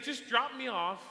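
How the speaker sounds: loud, high, drawn-out imitation; emphatic retold insistence; retold insistent demand. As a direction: demand it slowly and loudly in his voice.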